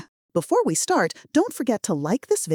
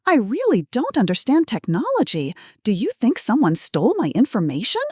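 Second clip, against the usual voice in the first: lightly raised, anxious granny voice; confused old lady; 3 semitones higher than usual. Acted. Fake granny fretting to the scammer, slightly higher. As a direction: sound worried and helpless. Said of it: "I maintained my confused elderly woman role".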